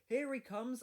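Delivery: high, loud call; shouting. A narrator's reading. Little boy spotting the guard running down the hill, high loud shout. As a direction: shout it across the platform. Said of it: "a little boy shouted".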